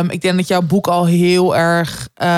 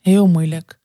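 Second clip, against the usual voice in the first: voice giving out; 2 semitones lower, slower than usual. Real, not acted. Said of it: "mijn stem is opeens een beetje weg".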